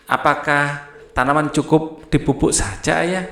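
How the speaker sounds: asking tune that lifts on Ayah; a clear questioning tune to the end; question intonation. Shown as a demonstration. Teacher showing pupils how a question to Ayah sounds, rising tune. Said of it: "seperti itu ya nadanya".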